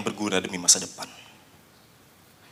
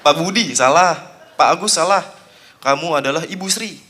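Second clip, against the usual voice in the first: teacher guessing; 4 semitones higher, 4 dB louder than usual. Acted. Teacher guessing, eyes covered.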